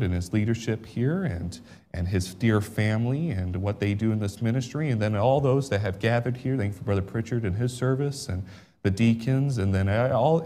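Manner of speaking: hushed pulpit prayer. Acted. Leads a prayer.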